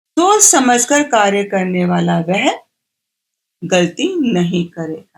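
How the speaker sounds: stress on वह, slow drawn-out finish.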